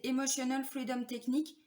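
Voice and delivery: « Emotional Freedom Technique » dit avec un léger accent anglais. Shown as a demonstration. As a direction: prononcer « Emotional Freedom Technique » à l'anglaise, sans forcer. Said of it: "Vous avez remarqué mon accent English". (petit accent anglais un peu joué sur « Emotional Freedom Technique »)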